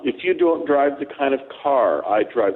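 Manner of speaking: ordinary talk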